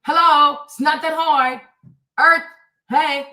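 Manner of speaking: loud exasperated hello; exasperated, raising the voice at them. Real, not acted. Exasperated at viewers' logic.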